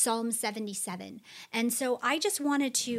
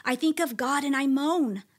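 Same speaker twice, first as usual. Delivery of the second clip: a psalm read as a lament, with a few lines dropped to a whisper; dramatic scripture reading. Acted. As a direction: read it like a man crying out to God. Reads psalm aloud expressively.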